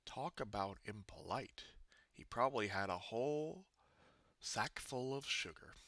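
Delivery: unvoiced aside; whispering. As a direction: whisper it as a grumble. Wolf grumbles aside.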